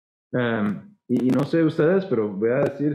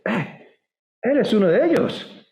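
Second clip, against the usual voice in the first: put-on accusing girl; 7 semitones higher, slower than usual. Girl points Peter out.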